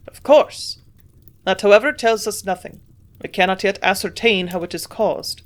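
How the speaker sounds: put-on gruff old man in a German accent; strong German accent. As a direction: admit the failure in a heavy German accent. Hofer dismisses the cure.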